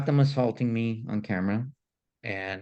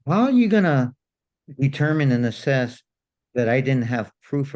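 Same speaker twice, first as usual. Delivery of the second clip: indignant; 2 semitones higher, 4 dB louder than usual. Real, not acted. Indignant rhetorical question.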